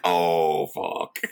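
low, loud groan fading to breath; mock horrified realisation, drawn from the gut; dread-filled reaction. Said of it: "you're just like".

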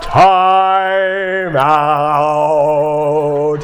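loud, high mock scolding parent; mock stern timeout. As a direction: play-act calling a timeout. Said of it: "can you imagine".

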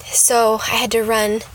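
slightly winded from running; out of breath. Real, not acted. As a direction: talk while catching your breath. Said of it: "sorry, I'm a little out of breath".

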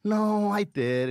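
drawn-out mock-remorseful admission; mock a regretful confession, very slowly; slow, teasing imitation of remorse; mimicked remorse. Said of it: "To hear the remorse in your fucking voice".

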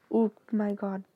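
sudden startled gasp of words. Real, not acted. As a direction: jump at a sudden fright. Startled by something.

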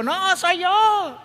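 very high, slow and drawn out; voice of Jesus. Acted. Jesus answering the frightened disciples, slow and soothing. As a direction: stretch each word, calming.

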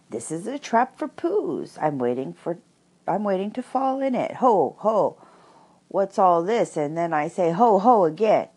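flustered Piglet squeak, rising loud; quick and squeaky. A narrator's reading. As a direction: squeak it out, completely unsettled. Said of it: "very quickly and squeakily".

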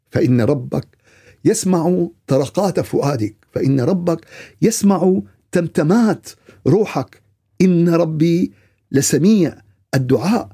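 slow, drawn-out formal declamation; sermon exhortation. Real, not acted. Preacher asking if hearts can speak to God, slow exhortation. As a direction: stretch the key words and pause between phrases.

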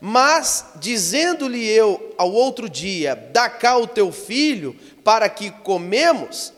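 high, loud, impassioned sermon voice; fiery preaching. Acted. Pastor preaching the famine scripture at full force.

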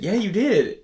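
lightly voiced teasing mom; mom insisting. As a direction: tease him as his mother, pitch jumping up. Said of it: "she said".

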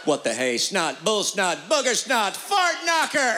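building outburst. Acted. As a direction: build to a big silly curse. Building mock cursing.

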